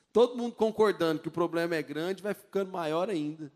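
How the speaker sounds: ordinary talk, nothing marked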